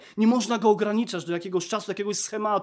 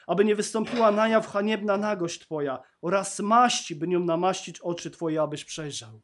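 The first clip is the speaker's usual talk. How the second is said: scripture reading; 4 dB louder than usual. Acted. Pastor reads the Laodicea letter to the church, measured. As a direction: read the letter to Laodicea with weight.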